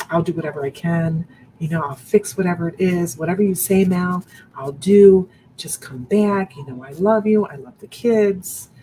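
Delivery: mock the ex's tearful begging; a hint of a husband crying, begging her back; imitating crying husband. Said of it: "He was crying".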